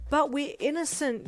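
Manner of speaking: a daughter wailing at her father in despair. Acted. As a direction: wail it through tears. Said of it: "you wailed".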